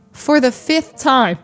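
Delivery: slow, mildly exasperated mock scolding. Dealer to a customer who keeps asking, mock scolding. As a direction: imitate a fed-up dealer, holding back a laugh. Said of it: "he was always getting scolded".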